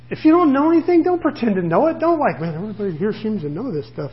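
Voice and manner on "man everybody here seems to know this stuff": soft, quick acted inner thought; insecure aside. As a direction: mumble it as a private worry. Voices an insecure pretender's thought.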